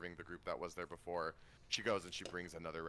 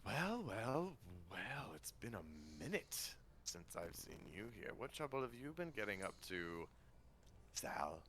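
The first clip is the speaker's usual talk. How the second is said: smooth Leonin; 6 dB quieter than usual. Acted. GM voices Yorin greeting Violet.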